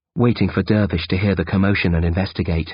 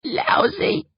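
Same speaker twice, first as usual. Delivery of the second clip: dry chuckle. Acted. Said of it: "he chuckles dryly".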